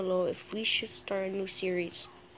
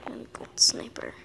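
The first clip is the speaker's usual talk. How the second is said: hushed whisper while aiming. Real, not acted. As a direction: whisper it, focused on the shot. Whispering during sniper gameplay.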